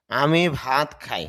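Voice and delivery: slow, clear example read out; slow model sentence. Shown as a demonstration. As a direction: spell the sentence out slowly for learners. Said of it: "খেয়াল করেন". (ধীরে, স্পষ্ট করে উদাহরণ)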